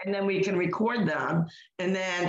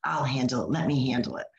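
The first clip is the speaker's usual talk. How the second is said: low, soothing mock reassurance; placating; 6 semitones lower than usual. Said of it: "she placated the woman".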